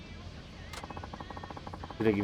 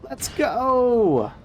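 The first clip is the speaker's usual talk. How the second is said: big high yell, way up and louder; hype shout; 12 semitones higher, 4 dB louder than usual. Real, not acted. Streamer hyping chat with a loud high shout.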